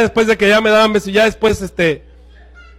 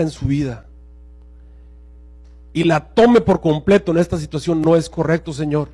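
quiet prayer. Retold or imitated. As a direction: pray softly and earnestly over the woman. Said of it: "Dijo algo más o menos así".

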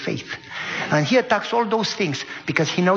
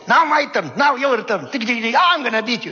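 excited kids playing; 4 semitones higher than usual. Father voicing kids squabbling over a video game, high and excited. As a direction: imitate squabbling children at play.

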